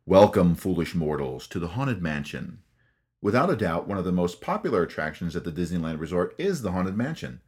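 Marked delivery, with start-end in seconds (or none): 0.0-2.6 spooky ghost host. Retold or imitated. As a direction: greet the guests like a creepy ghost host. Haunted Mansion host greeting imitated.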